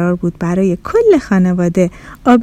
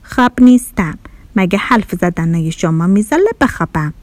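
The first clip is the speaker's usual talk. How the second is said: sluggish; 3 semitones lower than usual. Acted. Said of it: "با بیحالی گفت".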